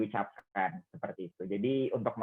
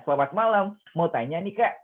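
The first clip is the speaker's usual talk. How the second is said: clearly voiced practice interview question; reading out loud; 2 semitones higher, 3 dB louder than usual. Shown as a demonstration. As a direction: read the script aloud, not silently. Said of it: "usahakan untuk dibaca. Contohnya".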